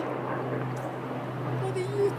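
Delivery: muffled whisper through fingers; low muffled whisper. Pretend. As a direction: whisper behind a hand. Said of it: "your voice is kinda low there".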